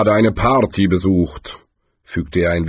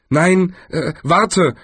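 higher-pitched, mildly flustered stalling; hasty; 10 semitones higher, 3 dB louder, much slower than usual. A narrator's reading. Galder keeps Death from leaving, hasty. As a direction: stop them with a touch of haste. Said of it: "erwiderte Galder hastig".

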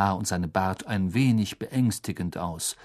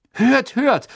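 high and loud approving call; loud cheer; 8 dB louder than usual. A narrator's reading. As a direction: cheer the headmaster's words. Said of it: "sagten Harry und Ron laut".

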